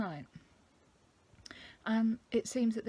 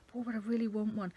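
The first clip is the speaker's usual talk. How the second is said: put-on slightly higher, louder childish plea; whiny inner voice; 4 semitones higher, 4 dB louder than usual. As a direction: whine like a child wanting a treat. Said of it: "having that argument with myself".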